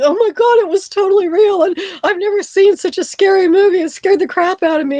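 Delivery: very high, freaked-out, over-emoting gush. Retelling answering a Channel eleven News mic after Blair Witch; retelling own freaked-out gushing. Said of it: "I'm emoting all this emotion".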